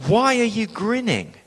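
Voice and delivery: retold reproachful demand; frowning challenge. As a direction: imitate someone suddenly affronted. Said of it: "she suddenly frowned at me and said".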